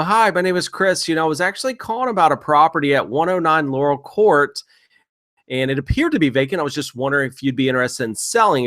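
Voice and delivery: casual and offhand, as if it's nothing special; like it's no big deal. Shown as a demonstration. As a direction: toss it off lightly, no pressure. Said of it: "you wanna say this like it's no big deal".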